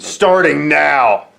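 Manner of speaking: slow, stretched-out wrestler catchphrase; slow mock wrestling bravado; Hunter Hearst Helmsley. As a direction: drag both words out like a promo. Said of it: "about that impression".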